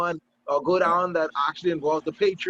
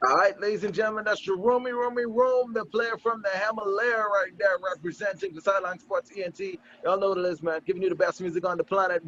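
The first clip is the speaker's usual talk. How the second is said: slightly raised radio announcer delivery; radio host patter. Acted. Host crediting the sports reporter before a break, radio announcer patter. Radio host's sign-off introduction.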